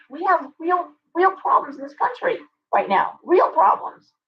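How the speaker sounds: high-pitched, worked-up incredulous rant; exasperated. Real, not acted. Venting about neighbors reporting a harmless gathering, exasperated. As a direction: raise the pitch in real exasperation.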